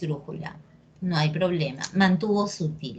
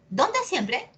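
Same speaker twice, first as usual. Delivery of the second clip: exaggerated question; 5 semitones higher than usual. Shown as a demonstration. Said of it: "Exagera, grita".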